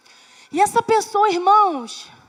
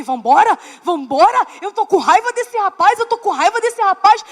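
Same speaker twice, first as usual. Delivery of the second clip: loud, urgent angry plea to husband; angry pleading; 6 dB louder than usual. Retold or imitated. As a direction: insist on leaving, fuming. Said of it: "eu falando pra ele".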